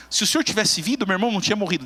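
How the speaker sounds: lamento agudo e magoado, de criança; mágoa infantil. Acted. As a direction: queixa de criança magoada, voz mais alta. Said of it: "demonstrando a mágoa dela". (Maria correndo a Jesus, queixosa como criança)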